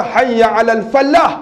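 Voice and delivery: falah with a doubled, held l, "fal-lah"; mispronounced falah. Shown as a demonstration. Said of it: "Jangan kata".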